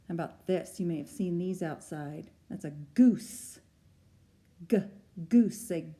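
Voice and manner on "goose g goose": loud goose call. Shown as a demonstration. Teacher honks goose word loudly.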